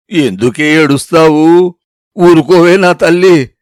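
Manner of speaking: put-on slow and coaxing, hushing a crying child; gently calm her down; soothing grandma. Grandmother comforts her weeping granddaughter, slow and soothing. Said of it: "బుజ్జగించింది".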